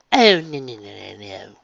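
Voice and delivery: protesting. A narrator's reading. Rarity protesting.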